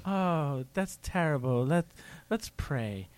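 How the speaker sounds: mock sympathy. Host consoling a bereaved caller, mock sympathetic. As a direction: pretend hushed condolence.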